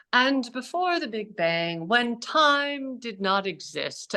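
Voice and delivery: put-on slow, measured British accent. Physicist narrating the universe's origin, mock British accent. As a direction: imitate a British science presenter, drawn out. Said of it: "he has this British accent".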